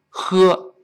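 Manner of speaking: voiced, throaty "呵" as the faulty h; wrong H sound. Shown as a demonstration. Teacher shows learners' mistake, "呵" scraped in the throat. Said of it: "你注意读成呵".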